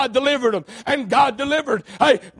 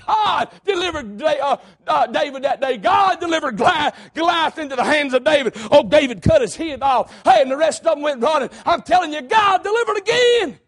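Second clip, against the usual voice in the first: preaching climax; 2 semitones higher than usual. Acted. Preacher shouting God's deliverance to the congregation. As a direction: drive it up to the peak.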